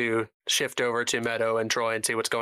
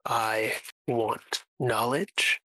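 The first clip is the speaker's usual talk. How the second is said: slow, deliberate captive antagonist; lightly acted, unhurried defiance with spaced words; measured villain.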